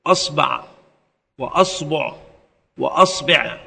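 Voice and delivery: أصبع with fatha on the hamza, ba said first with a, then u, then i; أصبع spelled out with an open a on the hamza and the ba vowel changed each time; vowel variants. Shown as a demonstration. Teacher demonstrating the three vowelings to students, careful articulation. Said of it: "ويجوز في الباء ثلاثة أوجه".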